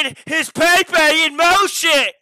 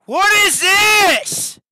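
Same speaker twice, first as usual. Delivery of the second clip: slow, high, loud disbelief; disbelieving shout; 6 semitones higher, 3 dB louder, much slower than usual. Real, not acted. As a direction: drag it out in shock. Reacts to meme in disbelief.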